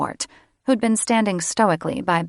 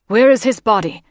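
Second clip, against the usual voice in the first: anguished demand; 4 semitones higher, 8 dB louder than usual. Acted. Grieving mother demands.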